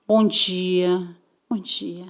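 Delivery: soft, dainty good morning; a prim, gentle bom dia; delicate greeting. Retold or imitated. Recruiter greets them in a soft, delicate voice. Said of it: "Bem delicadinha".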